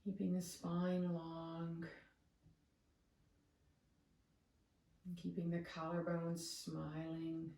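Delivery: calm, measured meditation guide, long pauses between cues; soothing yoga-teacher meditation voice; guided meditation. Real, not acted. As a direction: guide them into the breath, unhurried.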